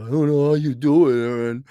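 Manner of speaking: lightly voiced envious neighbour, sarcastic; a hint of a whiny suburban critic; mock jealous suburbanite. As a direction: turn the envy back on them. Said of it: "the rest of you".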